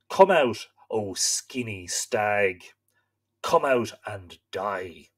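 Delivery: wolves' taunt. Acted. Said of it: "the wolves called to me".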